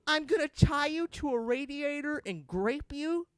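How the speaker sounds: high, loud, slow menacing line; hammed-up villain; crazy grape man. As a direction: spell it out, unhinged. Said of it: "He says".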